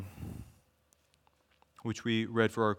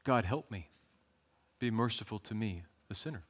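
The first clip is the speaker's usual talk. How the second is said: mild, hushed prayer for mercy; humble plea; 2 semitones lower, 6 dB quieter than usual. Acted. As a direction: let the plea sink softer to the end. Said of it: "who have this cry".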